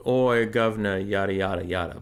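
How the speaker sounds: British accent. Shown as a demonstration. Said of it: "I could go with the classic".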